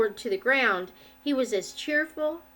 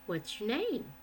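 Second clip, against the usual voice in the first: cheery; 8 dB quieter than usual. Acted. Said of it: "said the cheery voice".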